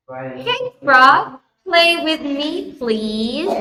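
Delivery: high, sweet begging duck; pleading duck voice. Acted. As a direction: coax the frog like a little duck. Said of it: "And the duck says".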